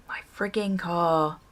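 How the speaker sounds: soft whispered grumble; whispered exasperation. Real, not acted. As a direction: breathe it out under your breath. Exasperated aside.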